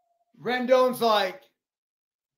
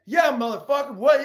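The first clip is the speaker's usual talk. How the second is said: loud, raised taunt; aggressive challenge; 4 semitones higher, 5 dB louder than usual. Retold or imitated. Rendon taunting the fan, loud and aggressive. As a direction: dare him to say it again. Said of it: "He's like".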